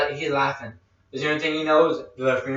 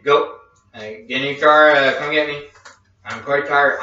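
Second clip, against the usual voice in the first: retold urgent shouting; 5 dB louder than usual. Retold phone call ordering friend over.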